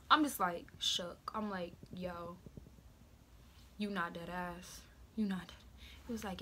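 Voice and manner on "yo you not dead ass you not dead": soft, stunned, slowed-down denial; quiet shock at the news; mock hushed disbelief.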